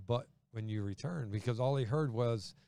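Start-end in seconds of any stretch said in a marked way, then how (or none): 0.1-1.3 "but when you return" dropped, soft and low; softly missed. Retold or imitated. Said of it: "and Peter missed the".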